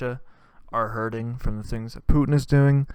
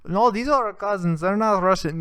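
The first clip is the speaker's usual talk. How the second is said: high pleading defence; 9 semitones higher, 4 dB louder than usual. Retold or imitated. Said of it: "I'm like".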